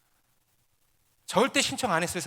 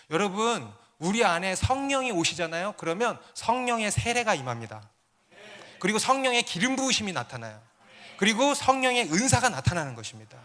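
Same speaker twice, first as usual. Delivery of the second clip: raised, emphatic preaching; 4 semitones higher, 4 dB louder than usual. Real, not acted. Pastor tells the congregation of the Spirit's coming, emphatic preaching. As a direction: proclaim it to the congregation, pitch lifting.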